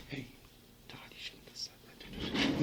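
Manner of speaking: soft, slow breathy aside; whisper. Retold or imitated. Lawyer quietly warning his client in court, whispered. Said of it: "You know when they whisper in his ear".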